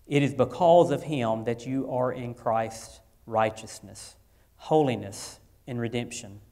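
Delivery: measured, solemn Bible reading with pauses; scripture reading. Acted. Pastor reading First Corinthians to standing congregation, solemn and measured. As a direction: read the passage steadily to the standing church. Reads Corinthians passage aloud.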